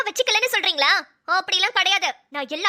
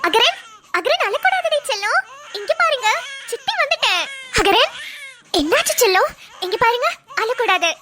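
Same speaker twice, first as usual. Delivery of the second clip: put-on coaxing baby talk; 3 semitones higher than usual. Aunt coaxing the crying baby.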